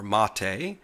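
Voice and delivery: "Mate" said MAH-tay, two syllables. Shown as a demonstration. Naming the desktop's real name, MAH-tay. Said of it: "The spelling of Mate, or Mate".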